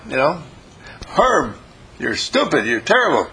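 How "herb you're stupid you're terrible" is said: mock complaint. Imitated complaining listener.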